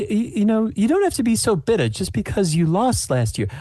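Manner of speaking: high, mocking granny; snide old lady. Sue taunting rival.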